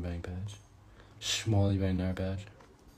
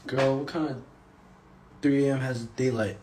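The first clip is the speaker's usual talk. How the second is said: higher and louder, disbelieving; pitched-up teasing disbelief; incredulous; 7 semitones higher, 5 dB louder than usual. Real, not acted. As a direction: come on, how could it be night. Correcting a viewer's time mix-up.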